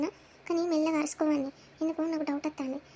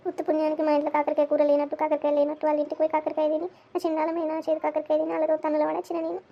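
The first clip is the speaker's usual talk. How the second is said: loud, bitter complaining rant; angry rant; 6 dB louder than usual. Acted. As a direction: rant at full volume about the beating. Son's angry rant about beating. (కోపంగా గట్టిగా వాపోవడం)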